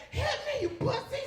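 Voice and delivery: high, loud mock female shout; woman's loud demand. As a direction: demand it as the frantic lover. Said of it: "She's like".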